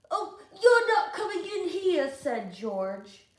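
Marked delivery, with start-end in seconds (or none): 0.1-2.1 loud, high blocking voice; bossy refusal. Acted. George refusing Luther, loud and high. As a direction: shut him out.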